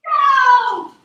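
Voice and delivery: high, loud start call; shouted go. Real, not acted. Mermaid starting the kids, shouting go. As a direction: launch them off the start line. Countdown ready set go.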